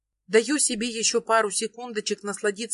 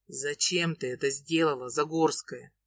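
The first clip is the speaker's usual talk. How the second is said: lightly lowered male voice, pained; a man asking his love why she did it, lightly voiced lower; Ilya's voice; 6 semitones lower, 3 dB quieter than usual. A narrator's reading.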